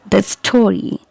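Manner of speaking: "The story" with "The" as short "thuh"; weak the before consonant. Shown as a demonstration. Teacher gives example before an S, "thuh story". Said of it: "you'll pronounce it as the".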